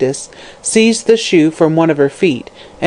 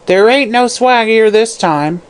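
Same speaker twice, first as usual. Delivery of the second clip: harsh crone; 6 semitones higher than usual. Acted. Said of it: "she asked harshly".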